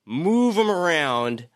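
mock the villain's grand plan; mock Apocalypse voice. Voicing Apocalypse mockingly.

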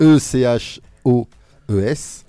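"E C H O" then "E S", letter by letter, slow; spelling it out. Shown as a demonstration. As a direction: spell "E C H O E S" one letter at a time. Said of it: "épeler comment ça s'écrit".

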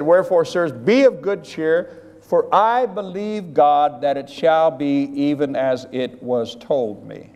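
Paul's proclamation. Retold or imitated. Paul proclaiming to the sailors on the sinking ship, slow and solemn. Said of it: "Paul said".

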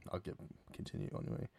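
whispered under his breath; muttered aside. Real, not acted. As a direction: drop to a breathy mumble, moving on.

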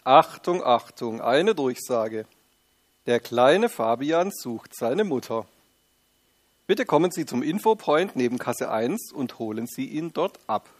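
formal loudspeaker announcement voice; store intercom announcement. Acted. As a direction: read it like a store PA call. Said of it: "Aus den Lautsprechern ertönt eine Ansage".

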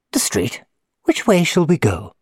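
a hint of a frail old man. A narrator's reading.

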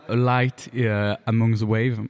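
English title in a French speaker's careful English; attempted English accent, drawn out; best English accent. Shown as a demonstration. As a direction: slowly pronounce it in your best English accent. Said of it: "mon plus bel accent anglais".

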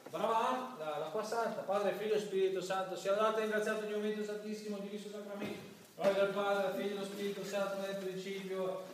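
a hint of a rushed churchgoer gabbling prayers; lightly mocking a parishioner racing through church prayers; mimicking a hasty churchgoer. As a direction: rattle off the prayers like a routine. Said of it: "sto un po' scimmiottando".

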